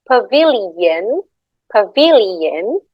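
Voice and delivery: "pavilion" slow, with a y-glide after the l; I becomes Y after L. Shown as a demonstration. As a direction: draw out "pavilion", rising at the end. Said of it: "after L becomes Y".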